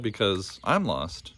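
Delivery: drawn-out, near tears; slow tearful admission. Acted. Lost boy admits to Booney, slow and tearful. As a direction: let the words sink. Tad crying.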